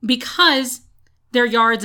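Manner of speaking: sudden unvoiced whisper; conspiratorial stage whisper. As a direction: drop to a secret whisper for one word. Conspiratorial aside about neighbors.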